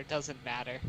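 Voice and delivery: very low, barely audible mutter. Acted. Tired guest brushing off the innkeeper's question, muttering. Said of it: "I'll just mutter".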